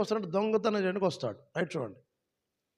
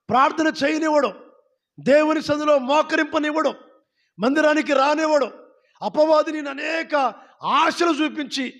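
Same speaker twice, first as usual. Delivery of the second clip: preaching shout; 6 semitones higher than usual. Real, not acted. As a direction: cry it out from the pulpit. Preacher calls out about the devil.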